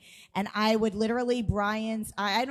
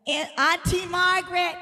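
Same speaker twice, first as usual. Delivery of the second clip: excited call; 9 semitones higher, 4 dB louder than usual. Acted. Calling out comedian's character name.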